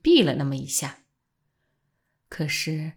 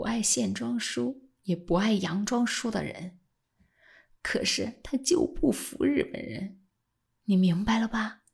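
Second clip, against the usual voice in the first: low chuckling voice; 2 semitones higher, 7 dB quieter than usual. A narrator's reading. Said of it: "老先生低声地笑了一阵".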